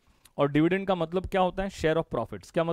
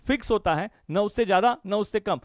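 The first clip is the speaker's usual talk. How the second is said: louder, higher, hammering the rule home; raised teacher voice beating out each phrase; emphatic teaching; 4 semitones higher, 5 dB louder than usual. Shown as a demonstration. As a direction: drum the rule in like a chant. Repeats the fixed-dividend chant.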